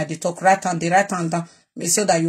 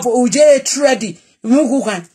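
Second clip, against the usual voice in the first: sudden loud shout; loud outburst; 4 semitones higher, 3 dB louder than usual. Real, not acted. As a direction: shout it out mid-rant. Rant, shout heard.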